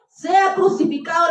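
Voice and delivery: lightly acted full-lung cry; understated mob shout; mild crowd shout. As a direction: call it out like a crowd, held back. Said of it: "la gente gritaba a pulmón".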